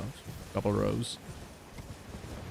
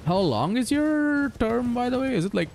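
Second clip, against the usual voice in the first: incredulous; 13 semitones higher than usual. Real, not acted. Incredulous question to friend.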